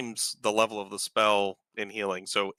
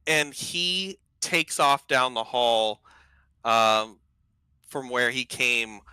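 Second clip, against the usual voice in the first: raised, slowed storytelling voice; game master narration; 2 semitones higher than usual. Acted. Game master describes the battle to players, in vivid narration. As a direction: paint the scene for the table.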